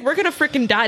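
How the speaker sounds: high-pitched retold alarm; mock-panicked cry at normal volume. Retold panic in sailboat storm.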